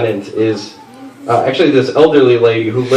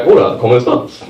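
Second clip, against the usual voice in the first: put-on Spanish-accented hola, lightly done; Spanish greeting. Comic greets the old neighbor, lightly Spanish accent. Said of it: "I respond in a different accent".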